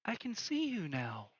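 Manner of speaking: put-on high-pitched ghost girl; Yella. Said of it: "Yella comes out, and she's like".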